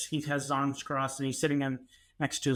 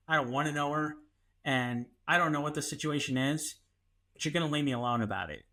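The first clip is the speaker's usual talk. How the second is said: serious. Retold or imitated. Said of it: "I got real serious real fast".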